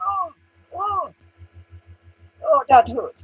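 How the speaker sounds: high mock groan of pain. Mocking the man he hit, high pained whimper. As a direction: whimper it like a hurt bully.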